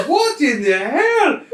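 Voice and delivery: loud, high, drawn-out exclamation; slow, outraged shout; shocked guard's outcry. Acted. Elf guard storms back in and finds the mess, shocked shout. Game master voices enraged elf's outcry.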